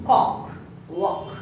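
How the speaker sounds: కాక్ and వాక్ with a short ఆ; short vowel. Shown as a demonstration. Teacher contrasts short and long vowels, short vowel. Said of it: "short ఆ sound".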